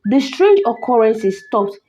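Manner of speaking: measured, dramatic storytelling; story narration. A narrator's reading. Narrator telling listeners of a cursed doll, story narration. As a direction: tell an eerie tale with careful pauses.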